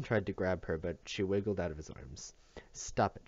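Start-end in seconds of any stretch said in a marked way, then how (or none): 2.7-3.3 cried out. Acted. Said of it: "she cried".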